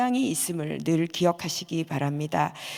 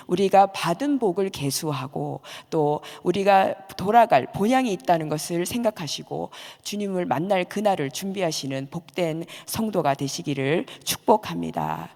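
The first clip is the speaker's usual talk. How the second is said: normal talking voice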